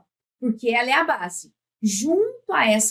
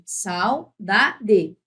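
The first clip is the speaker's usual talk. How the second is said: "Saudade" em três pedaços separados; sílaba por sílaba; 2 semitones lower than usual. Shown as a demonstration. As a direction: separe "Sau-da-de", marcando o "da". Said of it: "Essa é a tônica". ("Saudade" dito pausadamente)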